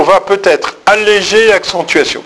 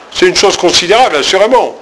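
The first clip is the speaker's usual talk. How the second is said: ironic assurément; 3 semitones higher, faster than usual. Shown as a demonstration. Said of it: "le assurément veut dire, bah, pas du tout".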